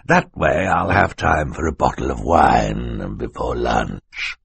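a hint of smug menace, sinking at the end; lightly voiced villain Stefano. Villain planning his getaway, lightly voiced and unhurried.

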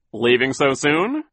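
a nervous clown pleading; anxious clown waiter. A narrator's reading. Larry the clown waiter asking the children, anxious. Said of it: "Larry asked".

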